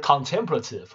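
Contemplative with TEM stressed; stress on second syllable. Shown as a demonstration. Teacher repeating after the recording, second-syllable stress in Contemplative. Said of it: "这要摆在第二音节".

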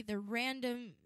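stumbling over the words; tongue-tied. Real, not acted. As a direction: trip over the word random. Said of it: "Getting tongue-tied".

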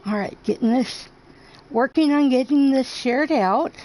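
talking around a pen in mouth; words muffled by a pen between teeth. Real, not acted. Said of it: "Yes, I have a pen in my mouth".

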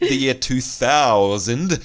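slow robotic drone. Retold or imitated. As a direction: drag it out like a robot. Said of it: "They talk like robots in their song".

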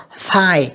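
"thigh" with a breath-only TH; no buzz on the TH of "thigh"; voiceless TH. Shown as a demonstration. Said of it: "không, không rung ha". ("thigh" với âm TH không rung)

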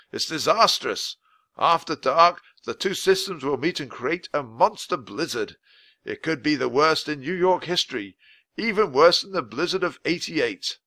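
a hint of a grave official; lightly voiced weather man, worried. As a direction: warn them gently but seriously. Voice of Mister Perkins.

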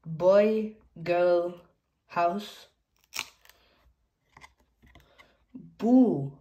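spaced picture-book word reading; name each picture one by one, with pauses; reading to children. Acted. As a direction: read single words out for toddlers. Reads picture words to children.

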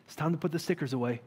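exact same tone. Retold or imitated. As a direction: say it lightly and fast, like an easy reminder. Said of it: "in this exact tone".

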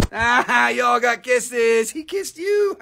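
high, laughing squeal of delight; tickled, squealing with laughter. Real, not acted. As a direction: laugh through it, pitch leaping up at the end. Delighted at dog giving kisses.

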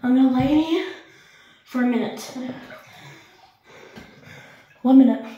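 loud, strained from the cold; cold shock yelp. Real, not acted. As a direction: push the words out through the freezing cold. Lowering into ice water.

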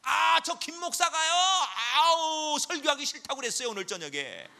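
shouted, high-pitched whining accusation; loudly tattle to God like a sneaky accuser; Satan tattling. Acted. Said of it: "사탄이에요".

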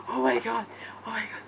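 low, soft, fading disbelief; stunned hush. Real, not acted. Fan after trailer ends, stunned hush. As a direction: let it drop away, drained.

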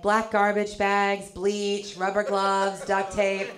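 slow, lightly voiced deadpan list; deadpan man. Man to girlfriend while shopping, lightly imitated deadpan. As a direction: tick off each item slowly.

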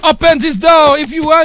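put-on loud, thick French accent on the English curse; hammed-up French-accented English shout; heavy French accent English. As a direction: yell it in English like a stereotypical Frenchman. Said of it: "pour faire genre le gros français de base".

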